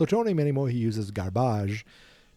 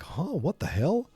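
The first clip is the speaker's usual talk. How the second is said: high-pitched mock astonishment; hammed-up startled disbelief; Biff; 7 semitones higher than usual. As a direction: act out gawking at the impossible. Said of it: "And he's like".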